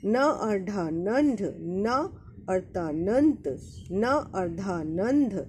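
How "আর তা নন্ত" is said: নন্ত said slowly, the ন only half sounded before ত; slow teaching model of নন্ত; half-letter demo. Shown as a demonstration. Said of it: "উচ্চারণটাও half হবে". (নন্ত ধীরে, অর্ধেক ন উচ্চারণ)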